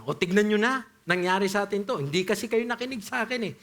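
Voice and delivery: vindictive I told you so. Retold or imitated. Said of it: "Hindi yun ang pagkakasabi ni Paul".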